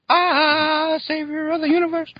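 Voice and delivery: high, grand hero proclamation; heroic announcer voice. Pretend. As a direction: announce it like a comic book hero.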